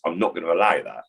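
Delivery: short, clipped refusal. Shown as a demonstration. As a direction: cut each word off firmly. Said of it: "it's clipped".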